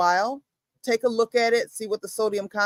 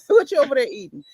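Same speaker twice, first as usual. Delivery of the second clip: laughing, a bit faster; 4 semitones higher, 3 dB louder, faster than usual. Real, not acted. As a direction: ask it again through a laugh.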